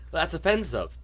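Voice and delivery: high-pitched mock offence; offended objectors. Objector scolding a comic over a word, mock offended. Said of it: "they were like".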